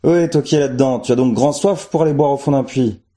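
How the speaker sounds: high, teasing shout down a well; a villager jokingly calling down into a well. A narrator's reading. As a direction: tease whoever hides in the well. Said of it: "demanda en plaisantant".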